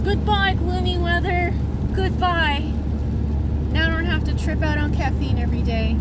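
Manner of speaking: high, loud, joyful yelling; shouted farewell. Real, not acted. Driving off from the gloomy weather: gleeful shouted goodbye. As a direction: shout goodbye out the window with glee.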